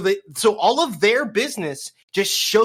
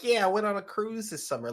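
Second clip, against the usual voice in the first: light Boston accent impression; 4 semitones higher, 5 dB quieter than usual. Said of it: "in a Boston accent and shit".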